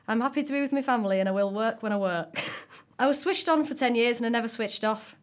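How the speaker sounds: hammed-up Scouse accent with a Brummy tinge; Scouse woman. Podcaster reading a McCartney interview for co-hosts, comic Scouse accent. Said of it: "do it in a Scouse woman's voice".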